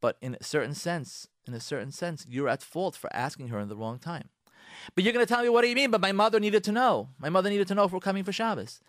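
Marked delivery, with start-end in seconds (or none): 4.9-8.8 higher, louder indignant protest; mock defensive husband; objecting husband. Husband defending himself to the counselor, higher and louder.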